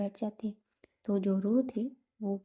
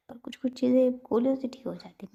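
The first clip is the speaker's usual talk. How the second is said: defensive and higher; 5 semitones higher, 6 dB louder than usual. A narrator's reading. Prerna defends pills over injections.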